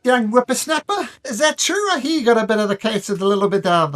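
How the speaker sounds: loud, very high Aussie zookeeper; terrible Australian accent. Acted. Zookeeper questions the sick boy, loud high fake Australian accent. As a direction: boom at a kid in hammed-up Australian. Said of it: "My terrible Australian accent".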